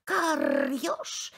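plain crow call before the shout; first call, held back; crow's first call, kept plain. Acted. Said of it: "кричит ему ворона".

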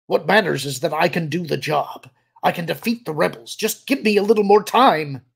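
loud plea climbing to a high cry; desperate plea. A narrator's reading. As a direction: build urgently to begging at full voice. Cornered officer begs for more time.

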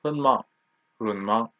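hen mang with hen kept short of a full dip; teacher's demo of hen mang; half third tone. Shown as a demonstration. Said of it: "Like this".

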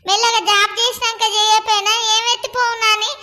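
loud, furious scolding; angry rant. Acted. Husband fuming at his wife over the daughter's wedding, loud and angry.

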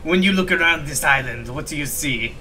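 rough attempt at a French accent; bad French accent. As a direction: read it with an amateur French accent. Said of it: "suffer through this French accent".

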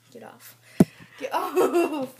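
laughing get off. Real, not acted. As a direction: say it through a laugh.

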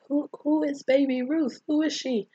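high-pitched, mock-naive questions; clueless questioning. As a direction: ask in a high, baffled voice. Clueless Smalls asks who that is.

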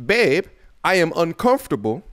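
a lightly put-on, half-hearted British accent; mock British accent, barely there; bad UK accent. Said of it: "that was my U K accent. It was terrible".

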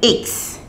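X said iks; letter X as iks; German X. Shown as a demonstration. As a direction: model X. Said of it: "X is pronounced as X".

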